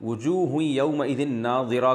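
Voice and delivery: very slow chanted recitation of "وجوہ یومئذ ناظرہ"; Quranic recitation. Shown as a demonstration. Teacher quoting the verse as a worshipper would read it, slow chant. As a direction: draw the verse out slowly, as in prayer. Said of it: "اگر کسی نے".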